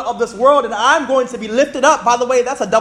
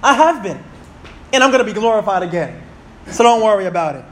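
confident reply. Acted. God reassuring the one praying, confident and matter-of-fact. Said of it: "I love that confidence of God".

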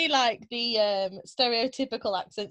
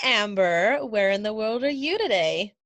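put-on American accent; 3 dB louder than usual. The speaker greets Amber on the podcast, putting on an American accent. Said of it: "I switched back to American".

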